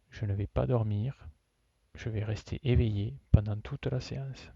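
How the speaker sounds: measured yoga nidra instruction with long pauses; guided relaxation. Real, not acted. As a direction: guide them phrase by phrase, leaving long silences. Leads a yoga nidra session.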